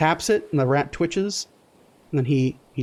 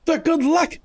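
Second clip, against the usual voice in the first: high, incredulous squeak; baffled Lamont; 13 semitones higher than usual. Acted. Lamont hearing rats are good luck, high and incredulous. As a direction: react in disbelief.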